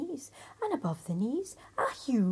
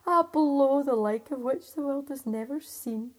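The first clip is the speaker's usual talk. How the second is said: proud cry; 4 semitones higher, 7 dB louder than usual. Acted. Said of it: "cried the tailor".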